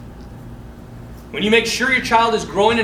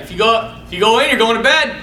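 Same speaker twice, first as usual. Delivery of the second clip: louder retold parental warning; stern dad; 4 semitones higher, 5 dB louder than usual. Dad warning son about bed, imitated stern. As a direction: imitate a dad laying down the law.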